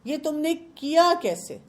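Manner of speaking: high, slow mock scolding; a playful how dare you, high and drawn out. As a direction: scold the kettle like a cross parent, half in jest. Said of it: "ہم تو اس کو بھی کہہ دیتے ہیں کہ".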